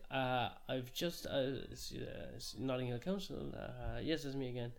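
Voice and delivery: slow, hesitant, prissy caller reporting neighbours; mock snobby resident. Posh newcomer phoning Notting Hill Council with a complaint, mock prissy. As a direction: play a fussy local phoning the council, hammed up.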